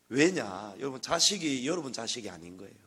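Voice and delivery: normal talking voice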